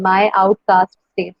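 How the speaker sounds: slow weak-strong beat on "my outcast state"; iambic stress. Shown as a demonstration. Teacher repeats the verse ending for students, measured stress on "my outcast state". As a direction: separate "my out-cast state", stressing out and state.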